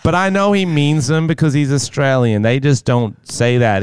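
lightly voiced American girlfriend; a hint of an American girlfriend; American girlfriend impression. Playing own girlfriend defending the boyfriend, light American voice. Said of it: "he has to impersonate his mysterious American girlfriend".

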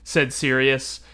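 measured storybook narration with quoted dialogue; calm read-aloud of a novel passage; story reading. A narrator's reading. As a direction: read the passage to the listeners like a book. Reads book passage aloud.

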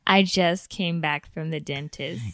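numb mouth after dental work; talking through a numb, swollen mouth; after wisdom teeth. Real, not acted. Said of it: "she got some dentist work done".

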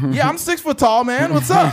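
high, loud, hammed-up reply; clueless bystander. Threatened man misreading six feet under, high loud clueless cheer.

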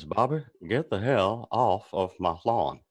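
lightly voiced slow Hank Hill; a hint of Hank Hill, slow; Hank Hill impression. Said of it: "I have Hank Hill".

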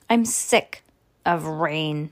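ordinary delivery

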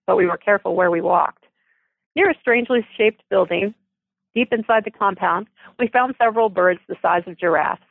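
steady storytelling read with lightly voiced characters; story narration. A narrator's reading. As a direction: read the chapter aloud to the audience. Author reads her novel aloud.

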